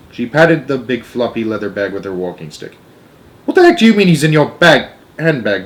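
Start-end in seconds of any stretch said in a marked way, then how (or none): 3.5-5.6 raised, higher-pitched exclamation easing at the end; indignant shout. A narrator's reading. Father baffled by grandmother's handbag claim, indignant shout. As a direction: shout it in disbelief. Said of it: "Mister Jenkins shouted".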